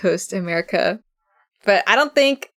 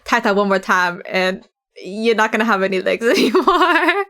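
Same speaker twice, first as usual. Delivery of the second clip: laughing mock threat; faster than usual.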